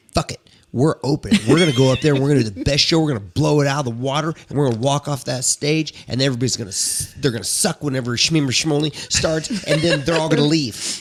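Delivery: fast, loud hype talk; pumped-up bandmate. Retold or imitated. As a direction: fire the band up, rapid and loud. Bandmate hyping the band up.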